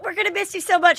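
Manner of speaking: high-pitched mock-sweet goodbye; fake sweet farewell. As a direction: gush it insincerely, up high. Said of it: "so happy".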